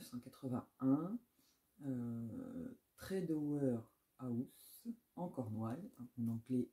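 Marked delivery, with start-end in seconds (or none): 3.0-4.9 slow attempt at an English accent. Shown as a demonstration. Booktuber naming a Cornish house, in a clumsy English accent. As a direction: say the place name the English way, carefully. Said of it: "mon accent anglais est pourri".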